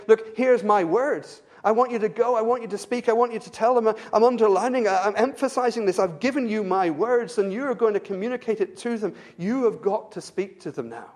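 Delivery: God urging his prophet to speak, insistently; voicing God. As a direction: urge him as God would, pressing each line. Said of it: "Constantly, God is saying".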